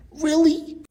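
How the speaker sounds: high-pitched, loud disbelieving "really?"; loud squeal of mock outrage; incredulous outburst. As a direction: blurt it out in shocked disbelief, voice shooting way up. Acting out Superman's outraged disbelief.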